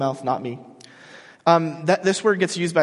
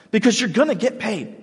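emphatic promise; 7 semitones higher than usual. Acted. Louder repeat of the promise.

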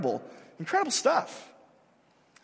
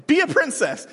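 higher, louder sing-song princess call; mock Disney cheer; 10 semitones higher, 8 dB louder than usual. Quoting the Disney cartoons to the congregation, in a chirpy mock call. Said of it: "it's like".

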